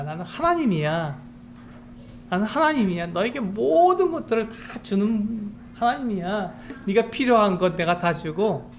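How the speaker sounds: 욥을 타이르는 다정한 하나님 목소리; 가볍게 하나님을 연기하며 달래듯이; 하나님의 음성. Acted. (하나님이 욥에게 하는 다정한 타이름)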